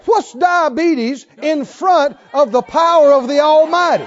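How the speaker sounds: loud, fervent preacher cry; a full-voiced preaching shout. Real, not acted. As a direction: thunder it at the congregation.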